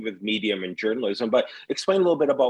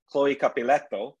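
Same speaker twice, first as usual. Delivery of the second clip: put-on Italian accent; 3 semitones higher than usual. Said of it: "See, I did my Italian accent".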